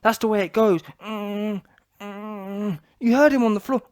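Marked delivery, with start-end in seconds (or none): 1.0-2.8 mock groans. Mimics floored Fury.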